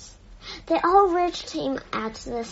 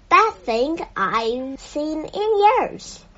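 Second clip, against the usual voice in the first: man in the crowd; 4 semitones higher, 5 dB louder, slower than usual. Acted.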